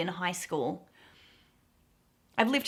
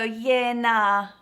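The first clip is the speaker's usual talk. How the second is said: softened refusal; 6 dB louder than usual. Retold or imitated. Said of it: "then I go".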